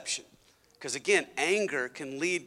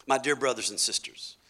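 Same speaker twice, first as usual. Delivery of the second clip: scripture reading; 3 semitones lower than usual. Shown as a demonstration. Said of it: "he said this".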